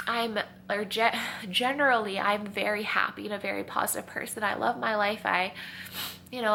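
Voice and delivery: stuffy, sniffling between phrases; sniffly after crying. Real, not acted. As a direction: speak with a runny nose after tears. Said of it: "sorry, I'm gonna be sniffling".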